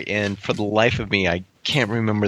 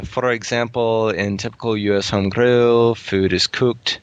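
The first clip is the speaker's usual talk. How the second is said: lightly voiced Irish-Scottish brogue; a hint of Scottish-sounding Irish accent; put-on Irish accent. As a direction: keep reading in a loose Irish accent, near natural pitch. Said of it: "trying to pick apart his accent".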